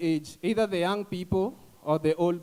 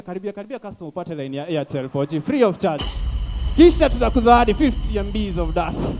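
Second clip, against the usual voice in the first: hawker calling out Airtel offers, louder at the end; street hawker call; 6 dB louder than usual. Retold or imitated. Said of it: "background unasikia".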